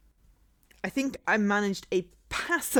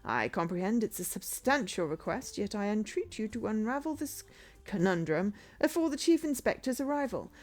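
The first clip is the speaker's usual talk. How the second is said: put-on formal old-fashioned detective voice; detective character voice; 4 semitones higher than usual. Streamer voicing the detective's summons, formal and measured. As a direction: read it as a stately detective. Voicing game dialogue aloud.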